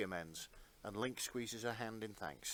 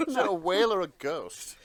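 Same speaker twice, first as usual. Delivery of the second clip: ghostly wail; 8 semitones higher, 12 dB louder than usual. Pretend. Ghostly wail after whale impression.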